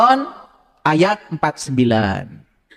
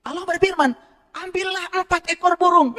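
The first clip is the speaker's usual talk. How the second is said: solemn divine voice; 12 semitones higher, 4 dB quieter than usual. Acted. Reading God's words solemnly.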